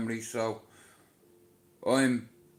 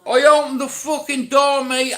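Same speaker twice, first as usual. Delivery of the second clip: excited rush; 13 semitones higher, 14 dB louder than usual. Retold or imitated. Rush when ambulance arrives.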